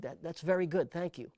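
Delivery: lightly put-on French accent, barely shifted; a hint of French accent for the director's praise; bad French accent. Director praising the air car sounds, faint French accent. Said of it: "I'll do a bad French accent".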